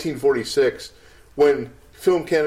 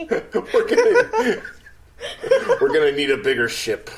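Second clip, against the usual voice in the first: misquoted movie line. Pretend. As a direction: deliver it like a film hero. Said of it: "almost there movie lines".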